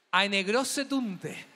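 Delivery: "Eine große Tunte" spelt out very slowly in German, each word drawn out; slow German demo. Shown as a demonstration. Host teaching the German crowd a rude word, very slow. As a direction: say "Eine große Tunte" slowly and carefully, holding back a laugh. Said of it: "¿saben ustedes cómo se dice mariquita en alemán?".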